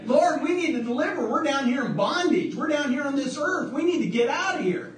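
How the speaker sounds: high, pleading cry for rescue; crying out to God. Retold or imitated. People in bondage crying out to the Lord, high desperate plea.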